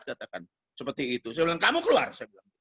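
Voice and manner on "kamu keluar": high-pitched curt command; retold eviction order. Preacher telling the girl to leave, retold command. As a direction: quote yourself throwing her out. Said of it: "Saya usir".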